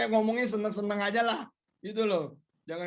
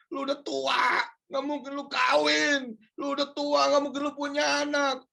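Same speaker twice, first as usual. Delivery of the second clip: taunting insults; 6 semitones higher than usual. Retold or imitated. People around us taunting the preacher, rising mock shout. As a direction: sneer the insults, building to a shout. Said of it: "akan ngomong seperti ini".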